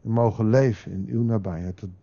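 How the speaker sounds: earnest spoken prayer, swelling midway then settling; closing prayer. Real, not acted. Preacher praying for listeners and churches, earnest prayer.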